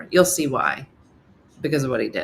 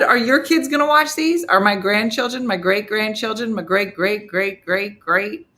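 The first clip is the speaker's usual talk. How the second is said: higher, louder mock disbelief; animated, high-pitched incredulous retelling; incredulous questioning; 5 semitones higher, 4 dB louder than usual. Acted incredulous questions to Steve.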